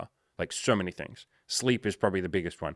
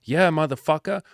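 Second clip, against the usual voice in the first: higher, louder hyped-up retold cheer; excited cheer; 8 semitones higher, 5 dB louder than usual. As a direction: celebrate his breakthrough out loud. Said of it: "And I was like".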